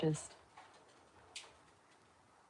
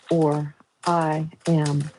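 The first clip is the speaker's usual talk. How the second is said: slow start building to loud mock threat; all caps; 5 dB louder, much slower than usual. Mock threat to call his mother, growing loud. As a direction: build it up like shouting in capitals. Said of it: "all caps".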